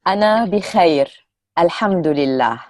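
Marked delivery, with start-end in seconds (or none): 0.1-1.2 أنا بخير said clearly as a model; model phrase. Shown as a demonstration. Tutor models أنا بخير for the class to repeat, clearly. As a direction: say أنا بخير for learners to copy. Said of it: "I will break it down again".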